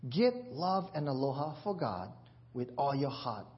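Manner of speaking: Bible verse read in Hawaiian Pidgin; measured Hawaiian Pidgin scripture reading. Acted. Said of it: "written in the Pidgin Bible".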